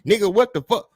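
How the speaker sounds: retelling her hostile snap; sharp imitated confrontation; woman at the establishment snapping at him; mock angry snap. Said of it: "twist her shit up like".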